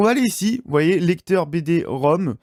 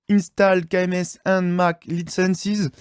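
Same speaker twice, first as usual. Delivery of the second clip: English read with a French accent; careful English words, French accent; slower than usual. Real, not acted. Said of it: "désolé pour l'accent anglais".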